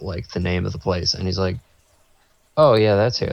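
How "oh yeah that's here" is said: louder burst of recognition; sudden realization. Retold or imitated. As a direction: imitate someone finally catching on. Guard suddenly recognizes the place.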